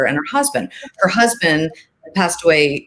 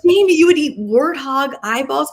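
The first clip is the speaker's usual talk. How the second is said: much higher, playful mock shock; teasing disbelief; 9 semitones higher than usual. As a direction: tease your son with fake amazement. Mother teasing her son.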